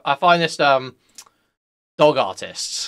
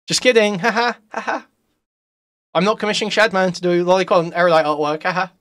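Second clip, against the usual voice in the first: laughing; 5 semitones higher than usual. Real, not acted. Laughing after prank reveal.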